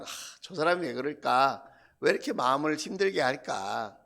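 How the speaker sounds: low, soft, weary wondering; lightly acted sigh of a hurt heart; sighing lament. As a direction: lament it quietly under your breath. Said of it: "탄식하는 기도를".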